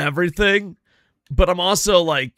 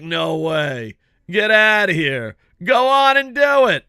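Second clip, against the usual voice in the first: mock amazement; 3 semitones higher, 4 dB louder than usual. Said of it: "And I'm like".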